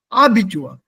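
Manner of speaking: Abitur as AH-bi-tur; stress on first half. Shown as a demonstration. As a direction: stress the start of Abitur, the wrong way. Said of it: "The stress is on the second half".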